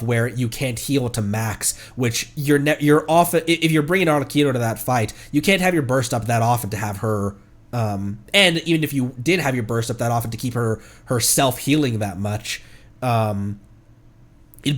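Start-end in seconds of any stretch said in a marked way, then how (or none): none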